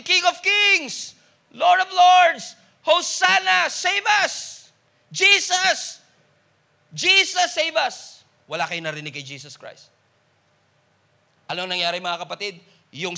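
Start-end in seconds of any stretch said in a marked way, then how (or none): 0.0-8.3 high, loud and slow acclaiming cry; crowd shouting. Retold or imitated. Preacher voicing the crowd hailing Jesus, loud shout. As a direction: hail the king with all your voice. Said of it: "some of them are shouting".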